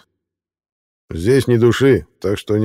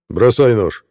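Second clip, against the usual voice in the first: barked order; 3 semitones higher, 5 dB louder, slower than usual. Acted. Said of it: "рявкнул мужской голос".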